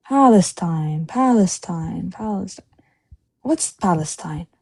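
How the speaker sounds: put-on slow, drawn-out puzzled repeats in a light Israeli accent; mock Israeli accent, puzzled. Retelling the mall vendor puzzling over Palestine, in a light Israeli accent. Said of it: "It's a thick Israeli accent".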